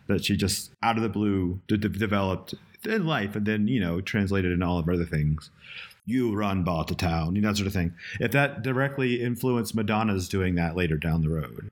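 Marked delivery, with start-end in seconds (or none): 6.0-7.3 put-on slow, affected British accent; a singer. Quoting a film line as an example, affected British accent. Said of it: "a singer's affected British accent".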